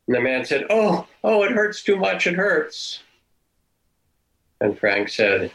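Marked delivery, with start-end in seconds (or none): 0.7-3.0 pained cry. Retold or imitated. Dying man crying out to Frank that it hurts. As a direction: cry out higher in pain, imitating him.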